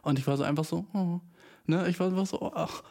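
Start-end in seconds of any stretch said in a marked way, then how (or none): 0.9-1.2 small, touched "oh", re-enacted; ein bisschen berührt. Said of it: "So ein bisschen berührt". 2.4-2.8 soft, touched sigh, re-enacted; ein bisschen berührt. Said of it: "So ein bisschen berührt".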